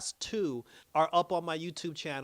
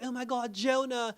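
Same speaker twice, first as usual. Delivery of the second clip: higher-pitched imitated greeting of surprise; retold delighted recognition; 7 semitones higher, 4 dB louder than usual. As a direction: act out recognising an old friend. Acts Lara recognising the caller.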